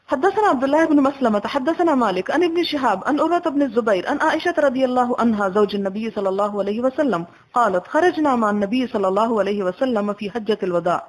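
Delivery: steady recited chain of narrators; Arabic hadith recitation. Acted. Teacher recites the hadith chain before explaining it, in a steady reading voice. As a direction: intone the isnad evenly, like a reading.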